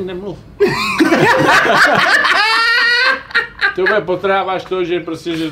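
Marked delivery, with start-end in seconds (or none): 0.4-3.7 long, high burst of laughter; loud laughter. Real, not acted. Friend cracks up at the joke, loud laughter. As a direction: howl with laughter.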